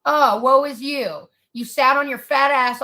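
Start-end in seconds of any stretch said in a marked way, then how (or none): 0.0-1.3 slow, drawn-out fake sympathy; sarcastic mock pity. Ranting vlogger mocks the woman's self-pity, slow sarcastic sympathy. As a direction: drip the pity with scorn, slowly.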